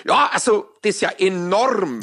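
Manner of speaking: mock impressed sketch line; a hint of a pompous Bavarian; Polt sketch voice. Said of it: "dieses Gerhard Polt-Stück".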